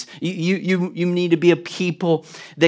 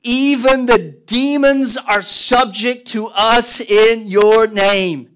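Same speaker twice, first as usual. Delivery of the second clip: joyful disciples; 6 semitones higher, 6 dB louder, slower than usual. Acted. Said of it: "They returned with joy".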